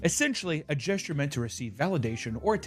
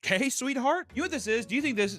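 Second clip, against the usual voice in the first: higher, patronizing sweetheart tone; condescending rude; 8 semitones higher than usual. Pretend. Mocking a partner who saw a bird, condescending. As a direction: talk down to her sweetly. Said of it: "this is me being a little rude".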